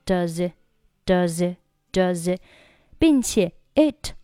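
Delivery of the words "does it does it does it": DOES IT run together as "duh-zit"; linked does it. Shown as a demonstration. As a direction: slide the z of does into it. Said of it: "这里does和it连读成". (does it 连读，it 末尾不发音)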